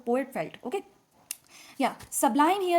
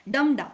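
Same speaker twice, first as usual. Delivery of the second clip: "Dum" stressed and louder, "da" unstressed and falling away; trochaic stress; 5 dB louder than usual. Shown as a demonstration. Teacher showing students the trochaic meter, stressed "Dum", unstressed "da". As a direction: beat it out with weight on "Dum" and a light "da". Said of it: "trochaic means stressed followed by unstressed".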